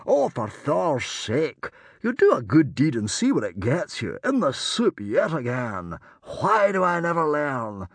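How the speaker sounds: exasperated. A narrator's reading. Stranger rues his good deed, exasperated wail. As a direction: wail at your own bad luck.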